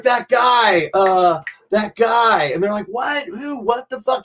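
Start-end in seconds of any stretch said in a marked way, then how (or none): 0.0-2.5 mock yell, stretching out the second try; retold angry scream. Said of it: "starts screaming at the entire staff". 2.9-4.2 high-pitched, baffled retold questions; bewildered staff. Bewildered staff react to the screaming.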